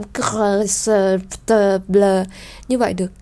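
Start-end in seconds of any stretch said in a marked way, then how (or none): 0.0-2.0 "cr", "s", "t", "bl" sounded one by one; isolated consonant clusters. Shown as a demonstration. Teacher sounding clusters that fast speech drops. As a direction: spit out each cluster separately. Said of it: "Vì khi đọc nhanh không thể làm".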